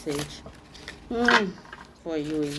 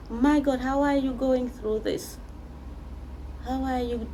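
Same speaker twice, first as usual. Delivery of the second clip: shocked; 8 semitones higher than usual. Real, not acted. Reader shocked by the card.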